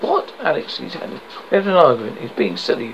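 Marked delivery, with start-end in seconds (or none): 0.0-0.3 dumbfounded. Acted. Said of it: "David, dumbfounded".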